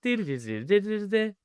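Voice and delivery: high wordless Northern Irish lilt; mock Northern Irish sing-song, swooping high; Northern Irish accent. Shown as a demonstration. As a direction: babble an exaggerated Northern Irish tune. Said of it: "That's Northern Irish".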